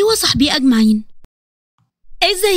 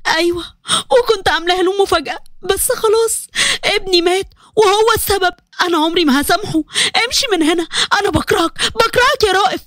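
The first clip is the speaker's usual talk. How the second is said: grieving wife; 3 semitones higher than usual. Acted. Wife tells of lost baby, begs.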